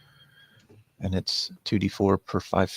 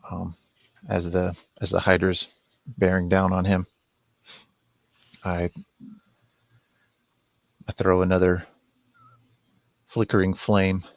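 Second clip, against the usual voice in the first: calling out; 5 semitones lower, 7 dB louder than usual. Acted. Player calls out in scene.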